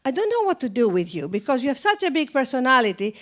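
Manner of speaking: imitated director's heavy Greek accent; much thicker Greek accent. Director letting an actress down, in a thick Greek accent. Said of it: "much, much thicker".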